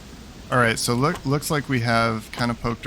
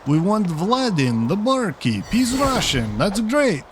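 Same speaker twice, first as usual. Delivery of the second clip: mock game NPC; 5 semitones higher than usual. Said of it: "they're like".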